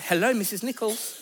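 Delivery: mock posh telephone manner, poised and polite; posh phone voice. Wife answering the school's call in a mock posh voice. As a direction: switch to your best posh voice for the school. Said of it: "to something from The Crown".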